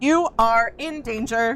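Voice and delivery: whirring, mechanical, machine-like robot voice. A machine speaks to the listener in a robot voice. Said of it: "Did you just try to do a robot voice?".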